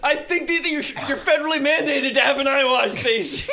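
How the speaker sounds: half-laughing desperate request; laughing plea. Acted. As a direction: beg through laughter. Pleading while laughing.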